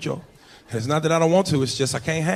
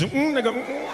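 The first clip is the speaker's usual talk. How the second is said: hushed signalling; 9 semitones higher, 3 dB quieter than usual. Retold or imitated. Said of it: "doing sign language".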